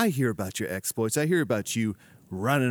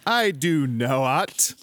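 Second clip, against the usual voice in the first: indignant denial; 3 dB louder, much slower than usual. Acted. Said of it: "putting the emphasis on the wrong syllable".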